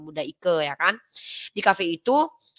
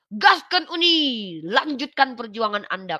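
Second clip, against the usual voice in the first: cheering-on dean; 4 semitones higher than usual. Retold or imitated. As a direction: urge her on, stretching the words out. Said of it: "saya udah cerita nih sama dekan".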